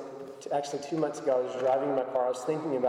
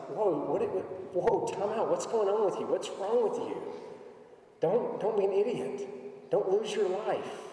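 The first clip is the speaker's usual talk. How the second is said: much higher, urgent voice of God stopping us short; God halting his people, urgent and alarmed; God calling out; 7 semitones higher than usual. Retold or imitated. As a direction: sound like someone grabbing a friend before they step into traffic. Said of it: "God's doing that with us. Like".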